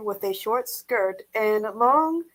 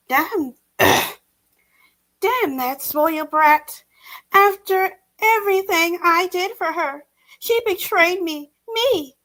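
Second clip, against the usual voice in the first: higher, resentful grumbling; bitter muttered cursing; 7 semitones higher than usual. A narrator's reading. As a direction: seethe at the betrayal under breath. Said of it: "swore under her breath".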